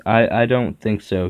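a light stammer on the first word; hesitant, tripping over the start. Acted. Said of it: "he stammered".

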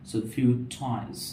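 toys drawn out with a puff of air; very slow careful toys; slow aspirated t. Shown as a demonstration. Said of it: "not toys".

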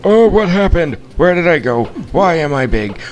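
baffled, suddenly confused; surprised confusion. Real, not acted.

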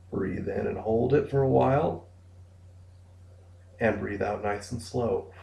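measured breathing cues with long pauses; guided breathing exercise. Shown as a demonstration. Therapist guiding clients through access breathing, guided meditation delivery. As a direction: lead them gently through each breath, leaving room to breathe.

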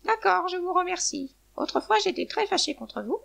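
high hen voice with a smile; smiling. A narrator's reading. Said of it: "La poule sourit et dit".

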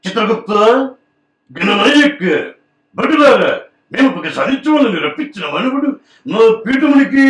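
high, booming god of death, last word slow; Mohan Babu as Yama. Retold or imitated. Mimic voices Yama from Yamadonga, booming slow. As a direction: proclaim like the lord of hell. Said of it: "Mohan Babu గారి voice అంటే యమదొంగ".

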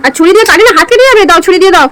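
alarmed scolding. Real, not acted. Uncle alarmed, child holding knife.

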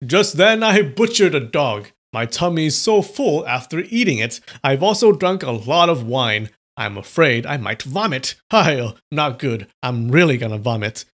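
put-on loud, boastful drunk rambling; loud drunk talk. Faking drunk to block the nuns, loud rambling. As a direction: bellow it like a queasy drunk. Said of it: "said in a loud voice".

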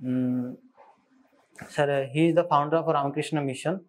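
ordinary delivery

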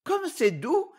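high, wondering; astonished old woman. A narrator's reading. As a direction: marvel at it, pitched high. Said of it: "disait la vieille étonnée".

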